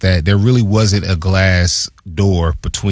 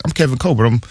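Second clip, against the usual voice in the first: lightly voiced GM, pitched higher; casual self-introduction in a raised voice; a hint of an easygoing exec; Kevin Colbert introducing himself; 4 semitones higher than usual. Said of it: "He was like".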